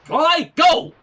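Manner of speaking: high, loud urging to go; urgent call. Acted. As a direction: hurry her off through the portal. Character urging Twilight to leave.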